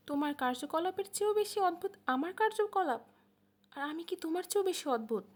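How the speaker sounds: firm, pointed questioning; slow but firm. A narrator's reading. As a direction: push back hard with each word. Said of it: "খুব ধীর কিন্তু শক্ত সুরে".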